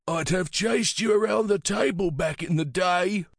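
put-on high-pitched, playful old man; brightened old man. A narrator's reading.

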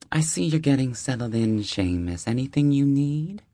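high, friendly deli-lady voice; warm older neighbor. Acted. Deli owner welcoming the new neighbor, high and friendly. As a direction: greet him like an old friend at the door.

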